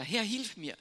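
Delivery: gespielter Hilfeschrei, hoch und lauter; Hilferuf. Retold or imitated. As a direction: ruf verzweifelt um Hilfe. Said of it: "Und dann schreit er". (Petrus schreit im Sinken um Hilfe)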